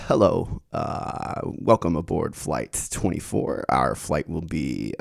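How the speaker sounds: low, slow nasal pilot announcement. Shown as a demonstration. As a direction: drone it like a pilot on the intercom. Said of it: "you know how pilots are always really nasally".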